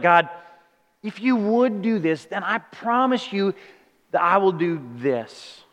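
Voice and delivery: bargaining. Retold or imitated. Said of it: "tried bargaining".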